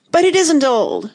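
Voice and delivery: high, loud outburst; furious cry. A narrator's reading. Tweedledum contradicts Alice about his rattle, furious cry. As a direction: protest in rising fury. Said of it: "cried in a greater fury than ever".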